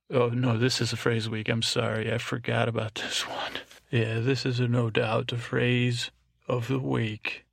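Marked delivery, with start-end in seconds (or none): 3.9-7.4 easy, calm announcement; just state it matter-of-factly; said calmly. Shown as a demonstration. Host announcing the phrase of the week, calmly. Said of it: "See how I just said that calmly".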